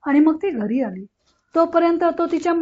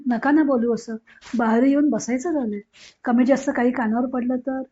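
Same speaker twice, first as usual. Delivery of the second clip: a hint of tearful pleading; near tears; 2 semitones lower than usual. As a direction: beg her to stop, voice on the verge of crying. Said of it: "Ganga रडवेली झाली".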